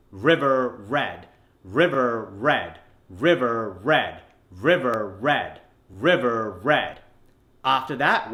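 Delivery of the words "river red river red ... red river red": "river red" slow, evenly repeated, strong American r; American drill delivery. Shown as a demonstration. Coach drilling the flipped words, slow American r. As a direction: separate "river red", both words falling, er fully sounded. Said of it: "say river red five times".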